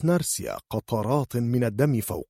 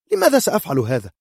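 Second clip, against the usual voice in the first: loud, high, fast wounded retort; offended healer's quick high protest; indignant protest; 8 semitones higher, 8 dB louder, faster than usual. Acted. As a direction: ask why she would ever do it.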